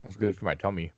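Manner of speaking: talking with ice in mouth; words round a mouthful of ice. Real, not acted. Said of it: "I'm eating ice right now".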